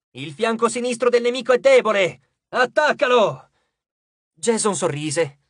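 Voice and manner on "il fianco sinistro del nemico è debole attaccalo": loud, high urgent battle call; shouted order. A narrator's reading. Frank directing Jason's attack, shouted order. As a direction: point out the weakness and shout the attack. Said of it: "gridò Frank".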